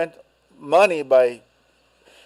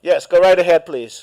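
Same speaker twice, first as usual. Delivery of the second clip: louder to a faint caller; to someone hard of hearing; 5 dB louder than usual. Real, not acted. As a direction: call out clearly down the phone line. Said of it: "Can't hear you".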